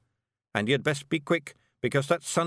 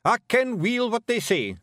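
sharp Scots snap, a touch louder; snapped; 12 semitones higher, 5 dB louder than usual. Acted. Rob cutting off Billy, snapping impatiently. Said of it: "snapped Rob Anybody".

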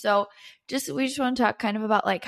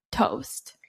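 whispered; 3 semitones higher than usual. Real, not acted. Tired after early start.

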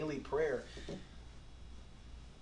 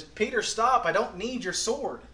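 firm command; 5 semitones higher, 5 dB louder than usual. Retold or imitated. Jesus stopping Peter.

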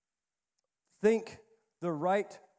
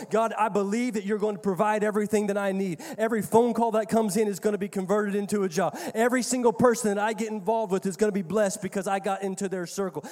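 confident prayer; 4 dB louder, faster than usual. Retold or imitated.

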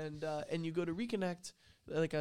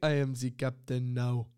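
mock captain line; 3 semitones lower, 8 dB louder than usual. Quoting the movie line in character.

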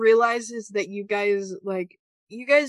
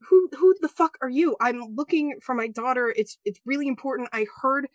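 frantic mother; 2 semitones higher than usual. Acted. Frantic goblin mother confronts innkeeper.

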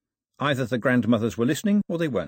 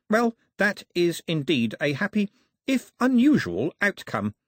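smooth diplomat, slightly raised pitch; 7 semitones higher than usual. A narrator's reading. Mister Black answering the king about the gift, smooth. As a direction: deliver it with polished tact. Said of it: "said Mister Black smoothly".

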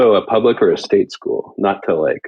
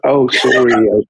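lightly put-on British accent; slight British affectation. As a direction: imitate an affected hint of British. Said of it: "they'd have a little touch".

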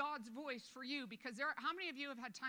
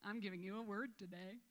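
mock picky God. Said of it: "he didn't get up in the morning and go".

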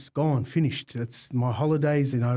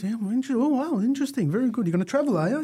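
a raised, lightly voiced Aussie dad; amused Aussie dad; 9 semitones higher than usual. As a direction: play the dad, amused and teasing. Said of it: "And Dad's very Aussie".

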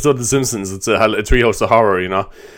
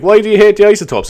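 mocking quote; 9 semitones higher, 5 dB louder than usual. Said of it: "and they're like".

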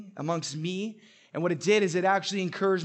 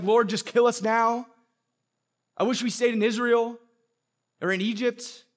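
mock whiny complaint; 5 semitones higher, 5 dB louder than usual. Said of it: "they were just like".

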